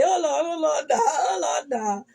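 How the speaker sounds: loud crying "Oh Lord" wail; wailing mother. Retold or imitated. Daughter voicing her distraught mother rushing to her job, loud tearful wail. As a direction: cry out to the Lord like a frantic mother.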